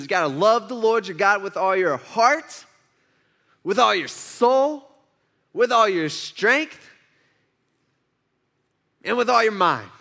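emphatic list, each item slow and set apart by pauses; intense recitation. Acted. Lawyer giving Jesus his answer, intensely emphatic. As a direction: act out an expert laying it on thick, item by item. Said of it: "making it way more intense".

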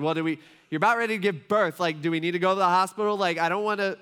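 husband hurrying to get wife to hospital, fast anxious questions; anxious rush. Retold or imitated. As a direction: rush the worry out. Worried husband asks hospital.

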